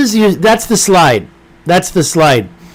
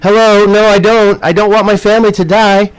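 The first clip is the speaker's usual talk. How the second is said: mock exasperated reply; 5 semitones higher than usual. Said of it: "I'm gonna be like".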